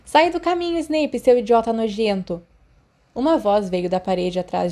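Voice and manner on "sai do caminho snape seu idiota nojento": higher, louder furious yell; angry shout. Acted. Crouch shoving past Snape, shouting insults. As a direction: bark him out of the way.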